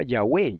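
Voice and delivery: Yahweh stressed on the final syllable, ya-WEH; correct pronunciation. Shown as a demonstration. Answering how the Tetragrammaton is pronounced, Yahweh as ya-WEH. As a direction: say Yahweh with the accent on the E. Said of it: "preguntan cómo se pronuncia".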